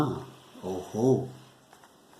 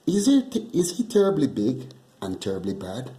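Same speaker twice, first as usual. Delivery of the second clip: put-on eager child voice; 3 semitones higher, 4 dB louder, faster than usual.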